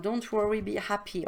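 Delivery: ordinary talk, nothing marked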